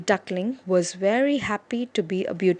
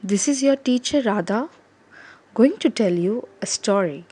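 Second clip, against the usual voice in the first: put-on gentle teacher talking to kids; reading to children. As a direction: speak gently to the class.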